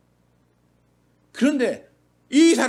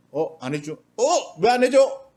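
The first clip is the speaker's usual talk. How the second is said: mock entitled demand; slower than usual. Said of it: "당연히 받아야 될 것처럼 막 이렇게 대드는".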